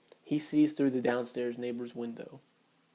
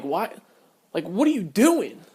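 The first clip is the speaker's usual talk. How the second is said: raised voice, retold argument; higher, louder exasperated demand; arguing, yelling; 5 semitones higher, 4 dB louder than usual. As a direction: challenge them as in a remembered row. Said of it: "We start arguing, yelling".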